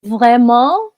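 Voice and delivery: "Vraiment" stretched out slowly as a question; drawn-out repeat. Real, not acted. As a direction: repeat "Vraiment" slowly for someone who misheard. Repeats it for a listener who misheard.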